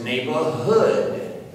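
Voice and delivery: "neighborhood" slowed, with weight on HOOD; stress on last syllable. Shown as a demonstration. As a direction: land firmly on the end of "neighborhood". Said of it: "you don't pick the first syllable".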